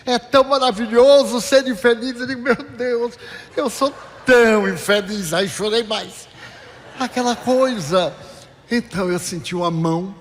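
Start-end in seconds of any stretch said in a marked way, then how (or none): 2.4-5.3 mock self-pity. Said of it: "eu me achei tão infeliz".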